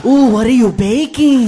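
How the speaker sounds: slow seductive. Acted.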